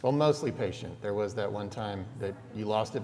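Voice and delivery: ordinary talk, nothing marked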